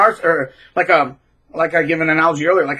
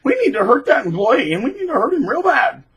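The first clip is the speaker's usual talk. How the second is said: mock narcissist order; 8 semitones higher than usual. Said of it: "when somebody says".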